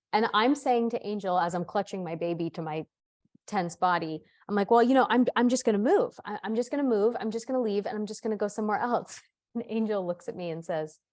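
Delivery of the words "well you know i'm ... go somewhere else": retold frantic resolve. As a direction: keep insisting, mildly panicked. Retold panicked resolve to move out.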